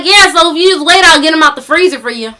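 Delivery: lightly mimicked country caller; casual country twang, put on; thick country accent. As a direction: imitate a country man on the phone. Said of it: "talking in this thick country accent".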